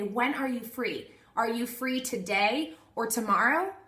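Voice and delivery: a slow, friendly text read aloud; friendly and unhurried. Shown as a demonstration. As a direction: offer both days, slow and inviting. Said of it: "I say".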